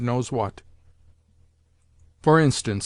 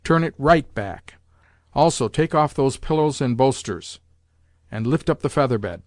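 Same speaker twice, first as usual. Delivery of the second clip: bossy grandmother. Acted. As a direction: order the servants about. Grandmother orders the lackeys.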